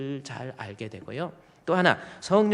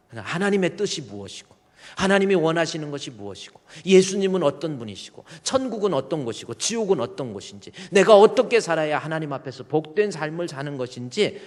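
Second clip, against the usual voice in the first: building preaching; 2 semitones higher, 6 dB louder than usual. Real, not acted. Preaching build-up, rising force.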